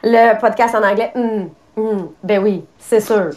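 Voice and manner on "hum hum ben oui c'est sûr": mock agreeing. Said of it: "un peu comme Maria disait".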